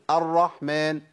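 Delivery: careful model of الرحمن; practice pronunciation. Shown as a demonstration. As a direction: say الرحمن with a sounded ح. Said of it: "وأنت بتقول دلوقتي ممكن تقول".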